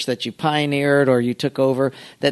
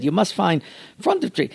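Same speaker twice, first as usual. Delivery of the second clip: lightly imitated Japanese accent, a bit softer; Mister Miyagi; 3 semitones higher, 5 dB quieter than usual. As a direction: quote the master in his broken English. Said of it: "So he said".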